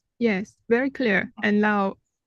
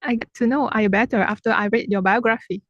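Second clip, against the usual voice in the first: louder, brisk repeat; repeating louder for someone who missed it; raised voice to repeat; 5 dB louder, faster than usual. Real, not acted. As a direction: say it up and quickly for a bad line.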